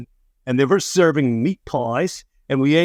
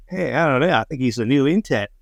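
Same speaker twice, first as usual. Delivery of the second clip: offhand Aussie boss imitation; attempted Australian accent. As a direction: shrug it off in a rough Australian accent. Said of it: "that was an Australian accent".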